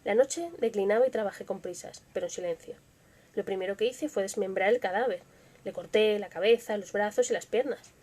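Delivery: tense, hushed horror storytelling; narrating a killer's feverish confession; dramatic story narration. A narrator's reading. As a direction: read it like a gothic confession. Reads Poe's Tell-Tale Heart aloud.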